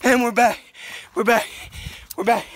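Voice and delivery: loud, high, excited; excited shout. Real, not acted. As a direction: burst back in shouting. Returns shouting after a long gap.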